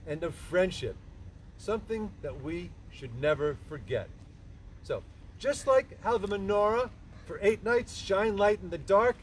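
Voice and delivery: reading a prepared speech to a crowd; measured, public address delivery; formal speech. Real, not acted. Reads son's prepared speech aloud.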